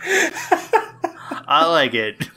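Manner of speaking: very slow, giggling; laughing. Real, not acted. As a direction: laugh the words out. Listener cracking up.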